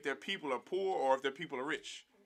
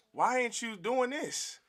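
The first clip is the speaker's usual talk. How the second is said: higher, slower mock scolding, then louder; mocking an old Christian; 5 semitones higher, 4 dB louder than usual. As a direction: mimic a preachy sellout, slow and high. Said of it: "Like some old Christian, some sellout".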